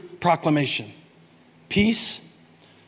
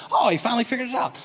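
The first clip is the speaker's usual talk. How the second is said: mock casual reaction; 4 dB quieter, much faster than usual. Imitating a reader skimming past Thomas's confession, mock casual. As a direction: toss it off as a glib reader would. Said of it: "You can't just say".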